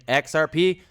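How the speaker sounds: slow, booming rallying cry; hype yell. Pretend. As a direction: build to a big loud yell on Moon. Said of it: "You love X R P Moon Yell".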